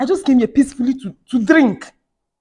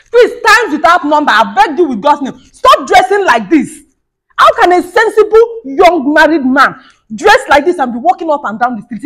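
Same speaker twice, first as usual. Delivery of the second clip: exasperated scolding; 4 semitones higher, 4 dB louder than usual. Acted. Wife scolding husband.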